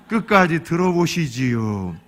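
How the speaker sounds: normal talking voice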